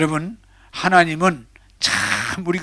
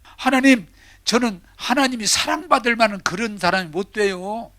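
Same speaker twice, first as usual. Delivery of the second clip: higher, pleading woman's voice; tearful woman; 5 semitones higher than usual. Acted. The drunkard's wife crying out to God, higher pitched. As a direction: plead as a weeping newcomer. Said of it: "막 울면서".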